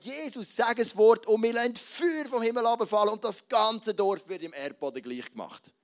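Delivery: fiery, eager demand for fire from heaven; zealous eager plea. Acted. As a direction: push it like a hothead disciple. Zealous Johannes urges fire. (eifriger, leidenschaftlicher Ausruf)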